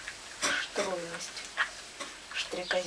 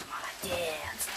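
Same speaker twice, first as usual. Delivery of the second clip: whispered praise; 5 dB quieter, much slower than usual. Real, not acted. Soft praise to dog.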